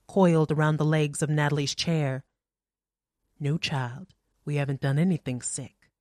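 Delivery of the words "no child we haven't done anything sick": soft and clear. Acted. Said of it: "her voice clear but soft".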